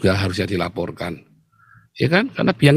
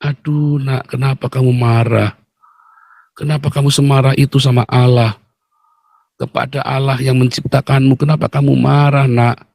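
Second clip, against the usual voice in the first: pitying; 3 semitones higher than usual. Acted. God pitying His angry child, compassionate. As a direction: plead gently but firmly with a wayward child. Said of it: "Justru kasihan".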